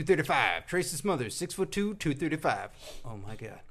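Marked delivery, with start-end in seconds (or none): none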